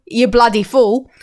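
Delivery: a little bit Australian, drawn out; lightly put-on Aussie accent; slightly Australian. Host quoting the talented duck, slightly Australian. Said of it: "say it a little bit Australian".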